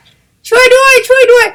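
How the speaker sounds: very high, slow, loud plea for help; the sun calling out from afar; sun crying for help. Acted. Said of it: "พระอาทิตย์ร้องขอความช่วยเหลือ".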